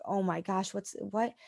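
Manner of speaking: understated, hushed disbelief; retold devastation. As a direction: trail into a quiet, stunned question. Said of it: "I was probably devastated".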